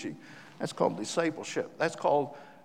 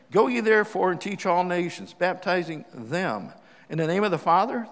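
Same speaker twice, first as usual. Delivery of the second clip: "them" punched hard, set off in a loud, deliberate reading; stress on THEM; 4 dB louder than usual. Shown as a demonstration. Missionary re-reading the verse to emphasize his word, stress on "them". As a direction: read it out strongly, leaning on each "them". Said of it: "I'm gonna emphasize the word".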